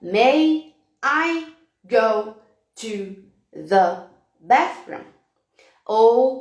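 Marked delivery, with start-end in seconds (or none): 0.0-5.0 very slow, hopping from word to word; word by word slowly. Shown as a demonstration. Teacher jumping hoop to hoop, one slow word each. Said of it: "Então".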